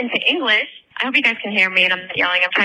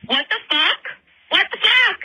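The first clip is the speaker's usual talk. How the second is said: yelling; 9 semitones higher than usual. Real, not acted. Telling a spooky story to friends, yelling in shock. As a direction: blurt it out in shock, climbing up. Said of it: "I'm sorry for yelling".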